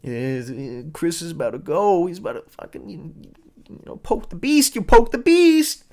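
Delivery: hammed-up suspense, climbing high; mock mounting dread. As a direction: build it up like the scene is about to blow. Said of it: "You're like".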